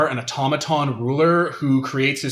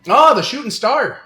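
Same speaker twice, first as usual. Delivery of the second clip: higher, louder Canadian realisation; Canadian accent; 10 semitones higher, 6 dB louder than usual. Acted. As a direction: trader recalls the star in a Canadian accent. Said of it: "this accent".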